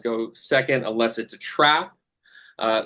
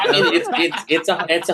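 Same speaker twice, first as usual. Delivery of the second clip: higher, breaking into real laughter; laughing; 6 semitones higher, 4 dB louder than usual. Real, not acted. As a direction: chuckle while starting the reply. GM laughing at player's question.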